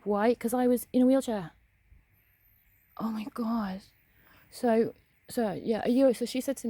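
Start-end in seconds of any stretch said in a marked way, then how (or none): 3.0-3.8 breathy exasperated whisper; whispered disbelief. Real, not acted. Telling viewers about being singled out, whispered. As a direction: whisper it, rolling your eyes.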